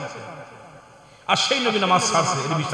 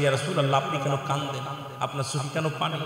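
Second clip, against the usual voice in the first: hushed concern; 8 dB quieter, much faster than usual. Retold or imitated. Aisha asks the Prophet why he weeps, hushed concern. Voicing wife's concerned question.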